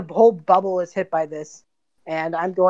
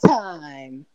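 sheepish doppelganger; 2 semitones higher than usual. Acted. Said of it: "It looks at itself and goes".

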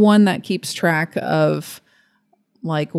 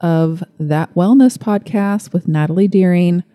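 excited. Real, not acted. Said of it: "I am so excited".

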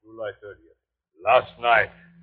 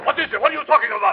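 startled question; much faster than usual. Acted. Captain alarmed by mate.

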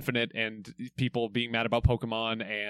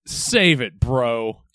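curt; 5 dB louder, much slower than usual. Acted. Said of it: "Oh, great acting".

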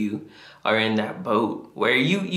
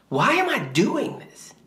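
pitched much higher, a cry of frustration; mock anguished yell; 8 semitones higher than usual. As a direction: let it jump up high like a desperate cry. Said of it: "yelling at God".

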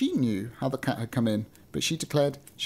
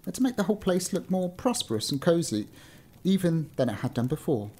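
measured storybook reading; story narration; 3 semitones higher than usual. A narrator's reading. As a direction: read it out like an old-fashioned tale. Reads a story aloud.

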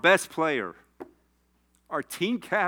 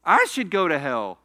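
choked-up, emotional admission; crying while testifying; real tearful confession; 4 dB louder than usual. Real, not acted. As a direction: confess it through tears. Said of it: "I'm crying talking about Irv".

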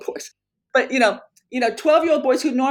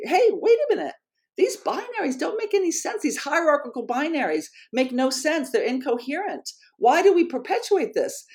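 incredulous objection; 5 semitones higher than usual. Pretend. Imagined voice calling out nonsense.

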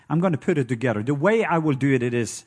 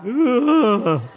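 1 mock exasperation; 4 semitones higher, slower than usual. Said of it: "And I'm like".

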